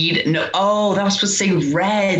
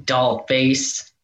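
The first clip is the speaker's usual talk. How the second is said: slow, smooth flirty delivery; sultry diner flirt; slower than usual. Shown as a demonstration. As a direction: sell the line with a flirt. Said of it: "show Gianni how to do it".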